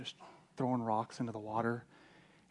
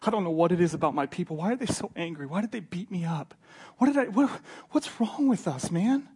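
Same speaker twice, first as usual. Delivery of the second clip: tearful pleading; 3 semitones higher, 4 dB louder than usual. Retold or imitated. Preacher voices bawling Sosthenes begging Paul for answers, mock distraught. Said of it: "he's crying and he's bawling".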